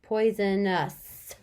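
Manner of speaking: Poisonous said slowly to hear each sound. Shown as a demonstration. Teacher to kids, sounding out slowly. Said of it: "I hear kind of a U sound".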